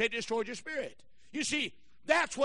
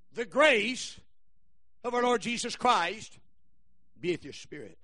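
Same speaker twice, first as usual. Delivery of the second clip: solemn scripture recital. Real, not acted. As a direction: recite with long, reverent pauses. Repeats the Bible verse.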